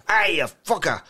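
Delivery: acted pained shout; mock scream. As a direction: yell it like a man pecked by a gull. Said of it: "is upset by the attack and screams".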